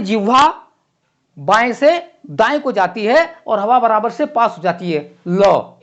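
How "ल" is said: la with the tongue to the side, air past both edges; teacher sounds out ल clearly, air passing the tongue's sides; teaching la. Shown as a demonstration. Lateral ल demonstrated for the class. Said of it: "इस तरह से इसका उच्चारण होता है".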